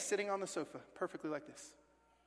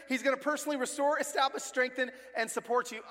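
excited restating; 5 semitones higher than usual. Shown as a demonstration. Repeating the promise faster, higher.

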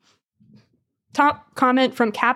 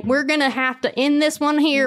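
higher, playful Southern twang; Southern accent; 4 semitones higher than usual. Acted. Host closing episode with co-host, put-on Southern. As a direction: sign off in mock Southern. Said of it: "when we're saying goodbye, Southern".

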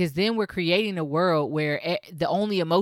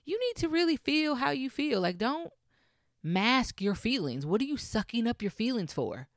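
pep talk to self; 5 semitones higher, 3 dB quieter than usual. Retold or imitated. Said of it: "I had to tell myself".

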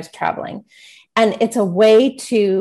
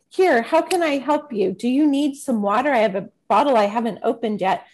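helpful stranger; 3 semitones higher than usual. Retold or imitated. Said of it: "the lady behind them is like".

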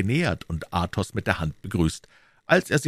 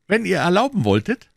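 shy; 13 semitones higher, 5 dB louder than usual. Acted. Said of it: "mit Schüchternheit".

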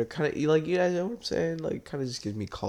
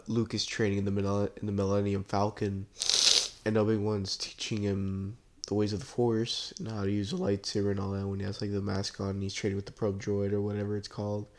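blocked nose from allergies; stuffy nose. Real, not acted. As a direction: talk through a stuffy nose. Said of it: "Sorry if I sound a little stuffy and keep sniffling".

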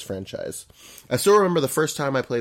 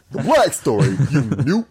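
teasing laugh; 5 semitones higher, 6 dB louder than usual. Real, not acted. Teasing the misreading.

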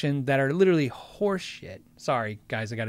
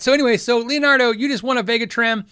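announcing winner; 6 semitones higher, 6 dB louder than usual. Real, not acted. Announcing giveaway winner to viewer.

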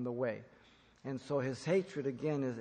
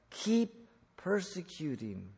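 slow, pressed keep persecuting; the Lord pressing the charge on Saul; emphatic; 3 semitones higher, slower than usual. Retold or imitated. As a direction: lean on keep persecuting, drawn out. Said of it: "answered Saul emphatically".

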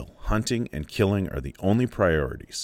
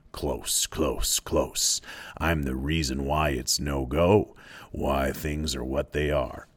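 low, lightly voiced intimate menace; sinister pig's head; 3 semitones lower than usual. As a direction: draw him close, lightly creepy. Lord of the Flies claims Simon.

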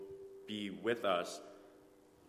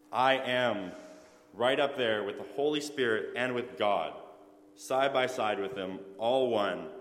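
louder, ringing proclamation in Jesus' words; voicing Jesus loudly; 5 dB louder than usual. Preacher booms out Jesus' claim to the congregation, loud proclamation. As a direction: proclaim it like Jesus declaring his place. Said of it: "But Jesus is saying".

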